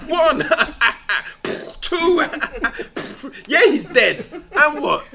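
high, loud threatening joke; mock gangster Big Bird. Big Bird threatening the Count with a joke, high and loud. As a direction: gloat over the kill. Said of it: "It's like".

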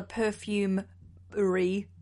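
PERFUMERY drawn out with a French flourish; mock-French "perfumery"; French-style pronunciation. Shown as a demonstration. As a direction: say "perfumery" slowly, trying it in a French accent. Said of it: "you say in French".

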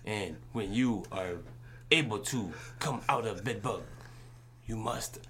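joking fake foreign accent, broken English; lightly put-on foreign accent, mock threat. To a runaway child, mock punishment in a lightly put-on foreign accent. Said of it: "put my fake foreign accent on".

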